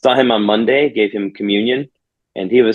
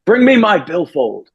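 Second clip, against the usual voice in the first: lightly voiced, higher, slow call to his wife; a hint of an old man calling from bed; frail old man calling; 8 semitones higher than usual. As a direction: slowly imitate him calling out for his wallet.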